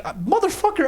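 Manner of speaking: high-pitched indignant curse; exasperated retort without shouting; retold exasperation. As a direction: swear in acted disbelief, pitch leaping up. Retelling his exasperated retort to manager.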